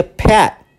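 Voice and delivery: pet with the final T swallowed. Shown as a demonstration. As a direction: drop the T at the end of pet. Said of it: "como que você engole o som do T".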